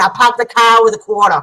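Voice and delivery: Boston accent, dropped r's; Massachusetts accent. Shown as a demonstration. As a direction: say it like a Massachusetts local. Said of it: "my Massachusetts accent".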